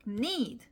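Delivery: "need" said long with a falling tone; "need" big and a bit long; stressed, lengthened need. Shown as a demonstration. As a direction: give "need" weight and a long vowel. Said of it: "need는 크고 좀 길게".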